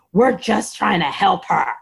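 mock snappy comeback from a nurse; lightly imitated testy nurse; imitated yapping retort. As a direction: yap it back, mildly irritated. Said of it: "The nurse yaps back at her".

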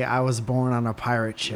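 tongue held, words mushy; holding tongue with fingers. Shown as a demonstration. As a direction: say it while gripping your tongue. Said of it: "Hold your tongue and say".

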